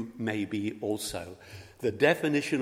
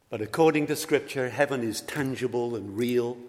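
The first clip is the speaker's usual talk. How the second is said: preaching; 2 semitones higher, 5 dB louder than usual. Real, not acted. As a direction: lift the voice to proclaim it to the congregation. Preacher rises to proclamation.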